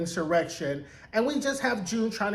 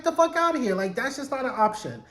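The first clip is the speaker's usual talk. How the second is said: scoffing, higher pitch, waving it off; mock dismissive Luke; 5 semitones higher than usual. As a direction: brush it off like an exasperated husband.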